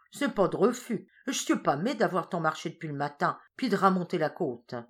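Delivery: lightly voiced weary countrywoman; tired old woman climbing into the cart; old peasant woman. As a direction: accept gratefully after a long walk.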